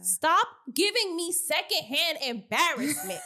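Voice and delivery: high-pitched, cringing exasperation; real secondhand embarrassment. Real, not acted. Co-host addressing a woman who embarrassed her, cringing. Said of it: "I'm embarrassed. Like, I feel it".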